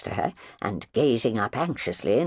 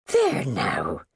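kindly. Acted. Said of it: "she began kindly".

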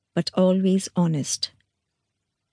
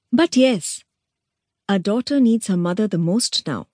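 knowing; 2 semitones higher than usual. Acted. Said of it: "nodded Mandodari knowingly".

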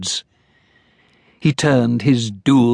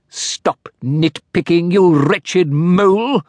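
cried out; 6 semitones higher, slower than usual. Acted. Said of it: "cried Sharpnack".

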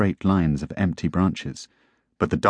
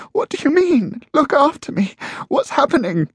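very high-pitched desperate questions; tearful, distraught cry. A narrator's reading. Wife in tears questioning husband, distraught cry. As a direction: plead in rising panic. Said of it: "tears running down her face".

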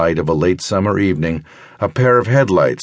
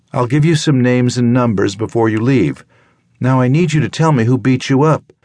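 higher, brisk doctor's voice, kindly but firm; concerned doctor; 7 semitones higher than usual. Acted. Doctor Emily telling her patient about the loose tooth, brisk and caring. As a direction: talk her through it like a practical country doctor.

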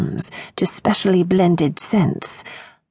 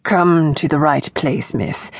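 stammering. Acted. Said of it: "Plimpton stammered".

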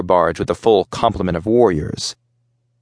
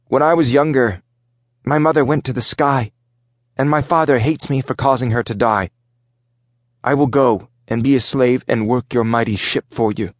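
lightly voiced boy, higher pitch; earnest young boy; 4 semitones higher than usual. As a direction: plead with the captain in a hint of a child's voice.

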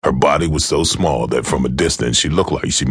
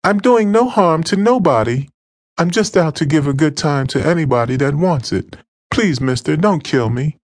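high, pleading whimper; frightened girl whimpers to her attacker; whimpering young woman. Acted. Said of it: "she whimpered".

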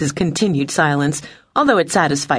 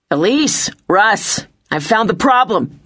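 higher, excited calling; barely contained excitement; 6 semitones higher, slower than usual. A narrator's reading. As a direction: call the good news to the crew. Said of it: "barely able to contain his excitement".

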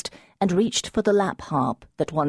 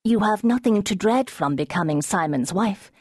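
urgent; 5 semitones higher than usual. Acted. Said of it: "her voice urgent".

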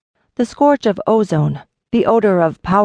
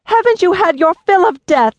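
much higher, loud outcry; cry out; 11 semitones higher, 4 dB louder than usual. A narrator's reading. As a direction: cry out to stop the fighting men. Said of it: "Eliseta cried".

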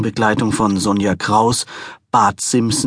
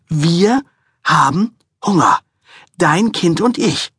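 higher, insistent woman's voice; demanding wife; 6 semitones higher than usual. A narrator's reading. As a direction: demand it like a sulking child. Wife pointing at belly.

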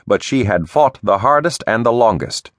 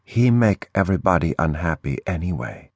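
broken English, flat; 4 dB quieter than usual. Acted. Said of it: "Tuyet said".

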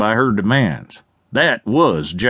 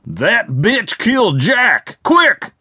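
panicked shout; 8 semitones higher, slower than usual. Acted. Gunman panics after shooting.

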